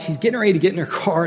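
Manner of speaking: ordinary talk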